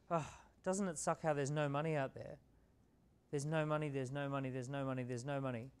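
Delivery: whiny moaning, fading; mock complaining. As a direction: moan about no money, trailing off. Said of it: "They pitch things like".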